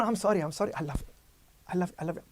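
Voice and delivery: pleading softly. Pretend. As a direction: whimper it out, clinging. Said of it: "I can demonstrate you".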